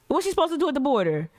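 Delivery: exasperated. Real, not acted. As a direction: fire it off fast and high, fed up. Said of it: "repeated exasperated question".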